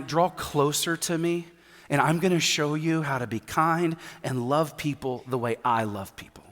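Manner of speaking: a loving father correcting his son gently; soft fatherly rebuke; gentle voice of God. Retold or imitated. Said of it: "I'll hear God say something like this".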